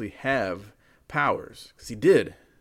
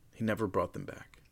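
quiet ominous; 7 dB quieter than usual. A narrator's reading. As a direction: drop to an ominous hush. Dramatic repeat, softer.

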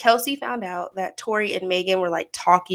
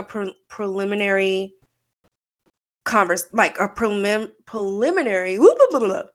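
tipsy. Real, not acted. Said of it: "Sorry, y'all, I'm a little tipsy".

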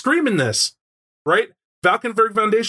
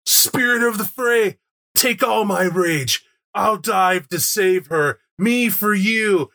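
heroic vow; 3 semitones higher, slower than usual. Acted. Player character's heroic sacrifice cry.

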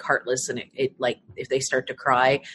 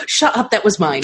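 high, gasping disbelief; gasp, then blurt it out; surprised gasp; 6 semitones higher, 4 dB louder than usual. Real, not acted. Gasps at shared fantasy.

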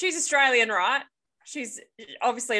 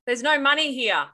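raised, higher mock shout; shouting back; 4 semitones higher, 3 dB louder than usual. Friend reading victim's line on cue, shouting back. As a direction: call it out as the victim, lightly hammed. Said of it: "Blake kept shouting back".

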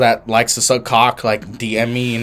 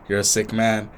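flat quiet reply; 2 semitones lower, 6 dB quieter than usual. Retold or imitated. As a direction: say it quietly and flatly. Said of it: "And he's like".

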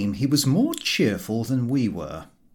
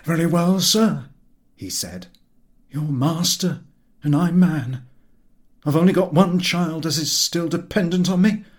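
put-on a grave, resigned old skipper, a touch louder; solemn old captain; 5 semitones higher, 3 dB louder than usual. A narrator's reading. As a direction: speak as if going to certain doom. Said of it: "His solemnity impressed me".

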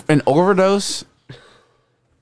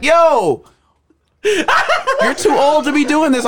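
God voice; 12 semitones higher, much slower than usual. Retold or imitated. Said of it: "And the Lord's like".

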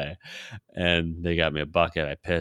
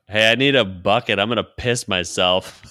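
louder retold plea to whoever might hear; calling out; 3 semitones higher, 6 dB louder than usual. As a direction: call out urgently for someone to help.

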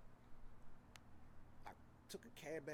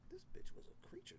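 mock whisper; 6 dB quieter than usual. Retelling thought about ex.

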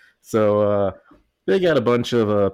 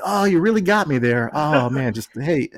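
higher, louder hammed-up fake defeat; mock defeated; 5 semitones higher, 3 dB louder than usual. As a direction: pretend you got beaten, overplayed. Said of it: "and be like".

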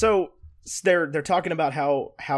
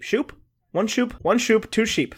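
playful counting sheep; 7 semitones higher than usual. Pretend.

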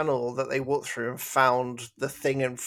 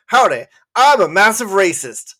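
a bad North American accent; 6 semitones higher, 13 dB louder than usual. Mocking an unsubtle racist character, bad North American accent. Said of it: "That's my North American accent".

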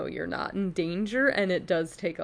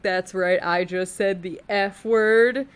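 edgy cool teacher; 3 semitones higher, 9 dB louder than usual. Retold or imitated. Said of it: "they're like".

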